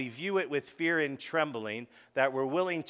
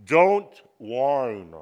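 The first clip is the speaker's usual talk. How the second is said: emphatic call; 9 dB louder than usual. Shown as a demonstration. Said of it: "It's this".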